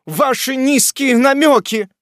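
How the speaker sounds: high, loud, slow indignant shout; loud slow scornful shout; outraged shout. A narrator's reading. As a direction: hurl it back in contempt. Outraged wife scolds.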